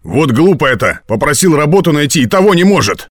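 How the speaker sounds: high, rising exasperation; exasperated complaint. A narrator's reading. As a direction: rant at her, pitch climbing line by line. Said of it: "истерически зажмурил глаза".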